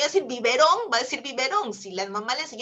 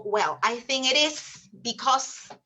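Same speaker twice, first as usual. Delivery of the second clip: student answer; much slower than usual. Retold or imitated. Voz del alumno.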